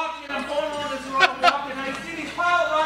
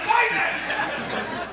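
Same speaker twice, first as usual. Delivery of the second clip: high-pitched mock-exasperated catchword; comic outburst; 8 semitones higher than usual. Angry customer to drive-thru kid, high mock outburst.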